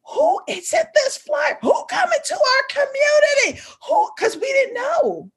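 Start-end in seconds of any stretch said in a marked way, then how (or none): 0.1-4.1 agitated asking. Retold or imitated. Community members asking who.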